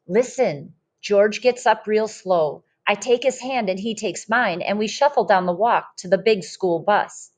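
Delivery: lively storybook read-aloud voice; reading to children. Acted. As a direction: read it like a picture book to a class. Teacher reads picture book aloud.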